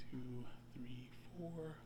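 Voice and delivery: very soft, half-whispered count; hushed counting. Shown as a demonstration. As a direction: count under a held breath, barely audible. Counting while holding the breath.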